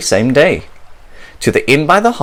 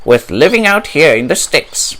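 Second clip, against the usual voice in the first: light, lively parrot voice; a parrot grumbling about country life; Polly the parrot; 4 semitones higher than usual. Acted. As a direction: chat like a fed-up little parrot.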